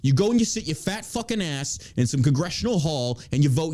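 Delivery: ranting in New York mode; worked-up New York tirade. Real, not acted. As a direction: let the indignant New Yorker rip. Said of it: "Still in fucking New York mode".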